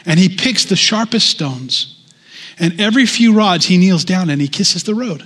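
put-on an old man's fervent resolve; eager diver.

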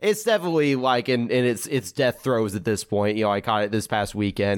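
blocked nose from a cold; stuffy nose. Real, not acted. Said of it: "if I sound a little stuffy".

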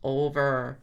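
slow, soft ghostly radio reply. Retold or imitated. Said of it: "a ghostly voice".

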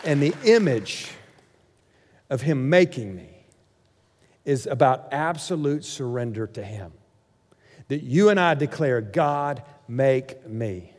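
low, soft, measured sermon voice; quiet and deep, leaving pauses between phrases; hushed preaching. Acted. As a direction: bring it right down into solemn surrender. Closing turn to surrender.

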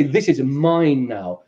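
very slow threatening gangster; slow menacing claim. Acted. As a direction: draw it out as a threat.

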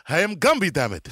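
put-on a loud burst of a grumpy old Jewish comic; imitating Gumby. The speaker quoting Eddie Murphy's Gumby, mock gruff. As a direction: bark it like a cranky old clay man. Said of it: "all he was doing was Gumby".

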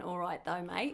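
put-on Australian accent. Shown as a demonstration. Showing co-host her Australian accent. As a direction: have a go at sounding Australian. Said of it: "I can do an Australian accent".

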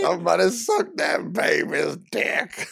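slow, drawn-out hype-man line into the mic; mock mic hype. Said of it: "got on the mic and says".

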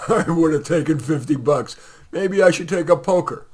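loud, high, gloating taunt. Acted. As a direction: crow over the win. Thief gloats after laughing.

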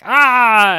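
sharp high yelp; loud surprised ah; startled yelp. Acted. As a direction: cry out in sudden alarm. Leo crashing the griffin ride.

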